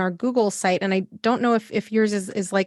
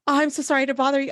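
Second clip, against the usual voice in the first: quick, higher, mock-flustered apology; 5 semitones higher, much faster than usual. Doctor retelling calling her endodontist, fast flustered higher apology. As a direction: rush the apology, pitched up and embarrassed. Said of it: "I was like".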